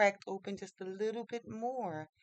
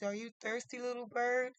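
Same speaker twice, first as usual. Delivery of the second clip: higher, gentle question to a little bird; lightly acted tender offer; gentle concern; 6 semitones higher than usual. Prince tenderly asks weak bird.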